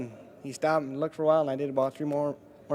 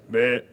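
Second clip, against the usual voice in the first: laughing little buck grunt on request; deer grunt imitation; 2 semitones lower, 5 dB louder than usual. Shown as a demonstration. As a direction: give a shy buck grunt. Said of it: "Do that again".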